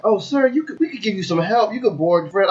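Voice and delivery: a hint of a high helpful clerk; lightly voiced polite clerk. Airport staff voiced in story.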